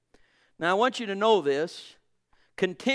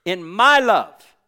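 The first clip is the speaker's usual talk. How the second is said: mild emphatic quote; 3 semitones higher, 7 dB louder, slower than usual. Acted. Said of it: "he says so sweetly, so specifically".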